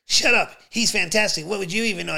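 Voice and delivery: loud, high American lady shouting down a heckler; mock-outraged shout in an American accent; imitated American heckler-silencer. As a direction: leap to a retort, loud and high. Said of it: "I hear this American accent lady just going".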